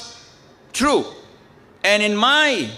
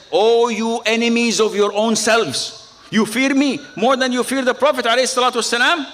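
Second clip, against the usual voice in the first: raised, higher-pitched mock scolding; acting out a forceful reproach; retold stern rebuke; 5 semitones higher than usual. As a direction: call them out indignantly, as in a retelling. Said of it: "Yes, you're rude".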